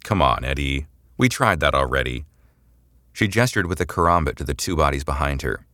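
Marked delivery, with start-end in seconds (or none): 0.0-2.2 disappointed. Acted. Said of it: "tutting with disappointment".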